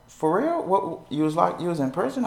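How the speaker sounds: high, startled question; surprised boss. Retold or imitated. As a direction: jump up in pitch, caught off guard. Steve reacts to felon question.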